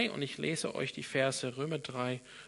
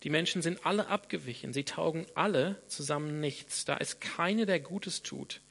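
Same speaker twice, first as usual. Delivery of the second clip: raised, measured Bible reading to the church; scripture reading. Acted. Preacher reads Romans to congregation, solemn and emphatic. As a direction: proclaim the verses with weight on keine and nicht.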